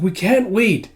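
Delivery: pleading like an anxious small creature; Kippa's voice. Retold or imitated. Kippa begging Master Ren to help Miss, high pleading voice. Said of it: "It's like".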